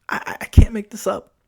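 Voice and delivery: stammered, breathy whisper; whispered aside. Real, not acted. Driver swearing to listeners the story is true, whispering. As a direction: lean in and whisper it like a secret.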